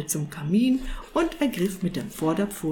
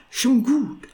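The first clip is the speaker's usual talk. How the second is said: startled, higher and louder; 5 semitones higher, 5 dB louder than usual. A narrator's reading. Cat appeasing the angry sorcerer, startled. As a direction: back off with a start. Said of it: "antwortete der Kater erschrocken".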